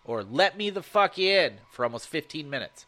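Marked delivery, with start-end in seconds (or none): 0.2-1.6 halting creature voice. Retold or imitated. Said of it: "it just keeps saying".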